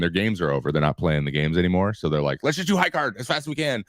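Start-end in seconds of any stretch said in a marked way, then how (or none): 2.4-3.8 high-pitched, eager mock urging; imitating excited teammates. Teammates in the back of the plane after landing, imitated excitement. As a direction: pitch it up, mimicking giddy players. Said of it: "you can just hear 'em going crazy".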